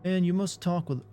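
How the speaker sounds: put-on southern accent. Streamer voicing her dad's text message in a mild Southern accent. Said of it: "I'm giving her dad a southern accent".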